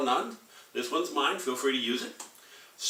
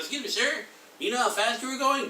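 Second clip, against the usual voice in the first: cop voice; 10 semitones higher than usual. Acted.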